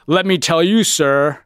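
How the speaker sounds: mock the noble speech a general gives; mock heroic general. Mocking Kelly's scripted speech, lightly heroic. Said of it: "it just didn't sound real".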